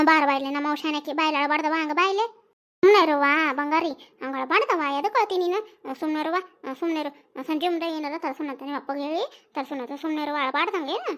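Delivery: coaxing, gentle hushing; soothing a child. Acted. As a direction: comfort a crying child with small promises. Soothing a crying child with promises.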